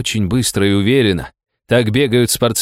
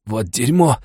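ordinary delivery, nothing marked

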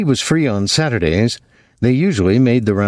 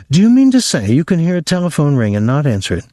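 incredulous; 6 semitones higher, faster than usual. Acted. Girl amazed at ignoring phone.

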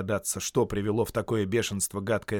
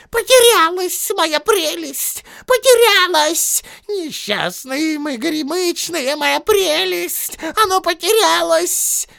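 much higher, louder, slow lament; wailing Gollum; 9 dB louder, slower than usual. Acted. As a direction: moan over the lost treasure. Gollum laments his loss.

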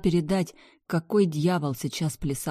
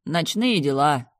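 curt reply; 5 dB louder, slower than usual. Acted. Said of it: "просто ответил Трой".

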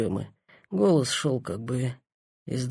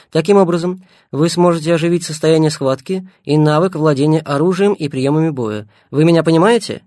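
higher, louder instructing doctor; earpiece voice; 5 semitones higher, 6 dB louder than usual. A narrator's reading. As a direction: explain it like a doctor over headphones. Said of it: "в наушниках негромкий голос Семёна".

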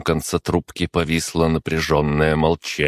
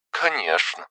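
high, short scoff over the phone; lightly amused phone reply; wry agreement; 7 semitones higher than usual. A narrator's reading. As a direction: agree with a small hmph. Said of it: "хмыкнула она".

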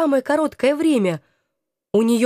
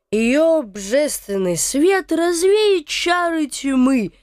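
slow, lost, feverish ranting; raving madman; 2 semitones higher, slower than usual. Acted. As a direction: rave like a man half mad. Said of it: "Несколько потерянно упорствовал Гофман".

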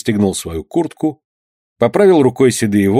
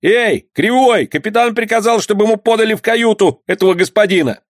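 calling lookout; 11 semitones higher than usual. Acted. Lookout relays order.

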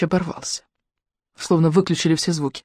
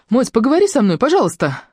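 higher, coaxing plea; mildly urgent, pitched-up appeal; pleading request; 6 semitones higher than usual. A narrator's reading. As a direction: coax her to keep talking. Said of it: "попросила Маша".

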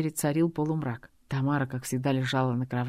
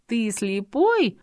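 higher, slow scornful jab; mocking; 7 semitones higher, 5 dB louder, much slower than usual. A narrator's reading. Adelaide mocking Robert, scornful. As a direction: sneer at his blindness. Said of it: "усмехнулась Аделаида".

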